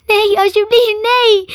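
high, loud wail of grief; sobbing plea. A narrator's reading. Ellen as her dragon turns to dust, sobbing plea. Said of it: "snikte Ellen".

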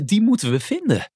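high, eager squeak; squeaky Snif. A narrator's reading. Snif wants to find the golden tree, high squeaky voice. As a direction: pipe it up high like a little creature. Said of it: "piepte Snif".

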